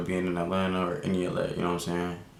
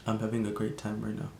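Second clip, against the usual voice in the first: put-on soft, understated Indian accent; 7 dB quieter than usual. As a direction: quietly imitate a stoned friend's Indian accent. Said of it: "I ain't even wanna say the accent".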